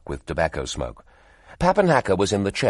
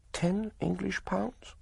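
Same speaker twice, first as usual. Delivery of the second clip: incredulous question; 13 semitones higher, 9 dB quieter, slower than usual. Acted. Woman haggling over stones.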